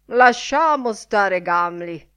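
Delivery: loud, slow angry outburst; angry shout. A narrator's reading. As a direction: shout him down in anger. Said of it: "urlò iroso Miles Crawford".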